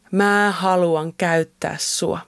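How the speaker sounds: slow, lightly voiced words of God; God's quoted voice. Woman retelling God's call at confirmation camp, slow quoted voice. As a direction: quote it slowly and deliberately. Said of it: "Jumala sanoi mulle vielä toisen kerran".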